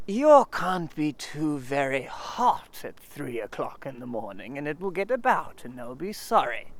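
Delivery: mope through every word; lightly voiced gloomy donkey. Eeyore voice held.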